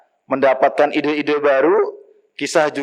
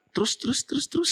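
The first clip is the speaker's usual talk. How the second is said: high, eager pleading to hear more; eager urging; 11 semitones higher, 9 dB quieter, much faster than usual. Acted. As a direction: beg him to go on, voice climbing. Wife eagerly urges story on. (istri penasaran, mendesak dengan suara tinggi)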